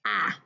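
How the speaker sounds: short open "ah" as in apple; letter sound demo. Shown as a demonstration. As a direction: say "ah" clipped and clear, the sound not the letter name. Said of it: "the letter A makes the sound".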